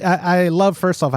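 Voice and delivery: ordinary talk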